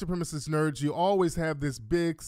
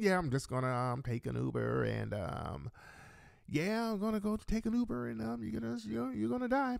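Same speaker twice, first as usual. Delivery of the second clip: mock gamer voice; 2 semitones higher, 10 dB quieter than usual. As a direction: mumble it like a bored gamer. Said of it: "He's talking like he just loaded".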